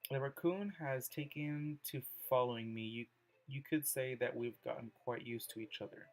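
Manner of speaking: measured reading aloud with pauses between phrases; poem reading. Acted. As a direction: read the poem out carefully, phrase by phrase. Reads Yuri's poem aloud.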